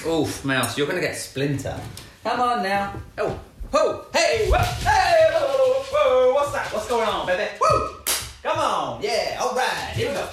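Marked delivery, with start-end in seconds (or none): 2.2-10.3 high, excited coaxing cries; excited puppy talk. Real, not acted. Owner squealing excitedly to get the puppy playing.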